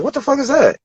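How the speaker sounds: retold bewilderment. Retold others' baffled question.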